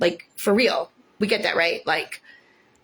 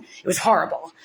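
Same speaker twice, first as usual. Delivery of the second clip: whispered; 3 semitones lower than usual. Real, not acted. Recalling the hospital ordeal.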